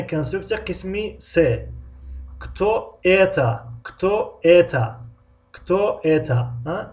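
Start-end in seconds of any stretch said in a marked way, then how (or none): 2.4-6.5 Кто это said with a falling tune on ایتا; falling question tune. Shown as a demonstration. Teacher demonstrating the third construction to students, falling tune. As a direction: let the voice drop at the end of ایتا. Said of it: "این شد اینترناسیونال کنسترکسیون قسم سیوم".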